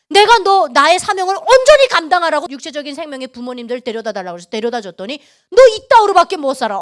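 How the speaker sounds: loud, forceful reproach in God's voice; retold scolding. God scolding Yuna for neglecting her mission, loud rebuke. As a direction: scold at length, punching the accusations loudly. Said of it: "하나님께서 막 혼내시는 거죠".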